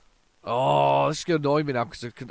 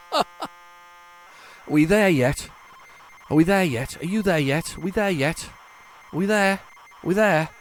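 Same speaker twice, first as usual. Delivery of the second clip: put-on whiny impatient kid; 6 semitones higher, 6 dB louder than usual. Impatient at loading screen.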